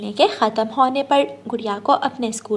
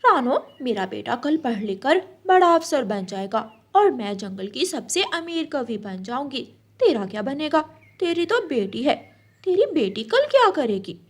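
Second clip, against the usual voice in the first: boastful crow. Acted.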